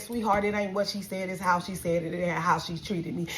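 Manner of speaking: restrained correction. Retold or imitated. Retelling her restrained complaint to cashier.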